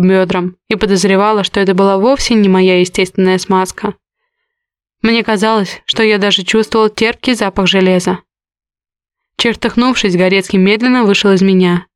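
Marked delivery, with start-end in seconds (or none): none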